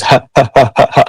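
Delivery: "ha" puffed out as separate airy syllables; short bursts of breath on each "ha"; aspirated h. Shown as a demonstration. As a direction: demonstrate the aspirated "ha" of southern Spain. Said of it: "we aspire a lot".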